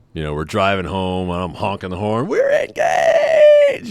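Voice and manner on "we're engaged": very high, drawn-out yell; joyful shout. Retold or imitated. Newly engaged groom yelling to the street while honking, very high and drawn out. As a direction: shout it out the car window in joy.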